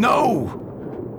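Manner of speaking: a high, sudden no; sharp refusal. Acted. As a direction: cut the doctor off with a high no. Father refuses to rest.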